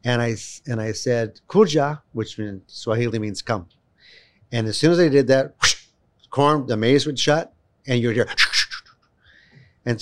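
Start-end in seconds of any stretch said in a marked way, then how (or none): 1.5-2.0 lightly raised, higher retold call. Calling a child from the corn. 5.6-5.8 sharp whooshing noise; imitated whoosh. Imitates the corn shutting.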